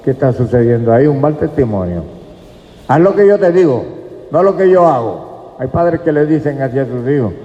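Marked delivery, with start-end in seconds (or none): 2.9-5.5 higher-pitched mock parental order; preacher imitating a parent's command; imitated parent. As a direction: lightly act a parent laying down the rule. Voices parents ordering their children.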